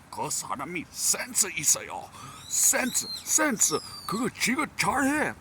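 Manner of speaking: high, fast Korean chatter; Korean coworker impression. Korean coworkers praising a junior, high and fast. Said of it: "they say it in Korean".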